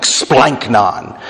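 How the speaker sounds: "splanchnon" landing like a falling stone; dropping like a stone. Shown as a demonstration. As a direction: say "splanchnon" with a heavy drop on the first syllable. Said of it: "sounds like a stone falling".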